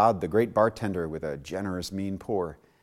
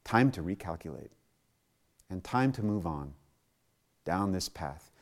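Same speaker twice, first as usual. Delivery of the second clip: calm divine guidance; 4 semitones lower, 5 dB quieter than usual. Acted. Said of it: "God says".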